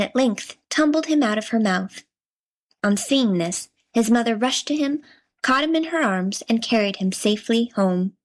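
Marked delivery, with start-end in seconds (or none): none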